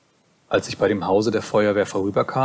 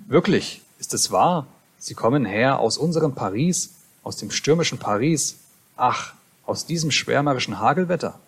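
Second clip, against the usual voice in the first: a touch startled, voice raised; almost startled; 3 semitones higher than usual. Acted. Narrator almost startled asks the drunk about Paris. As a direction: ask it with mild surprise. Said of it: "sagte ich fast erschrocken".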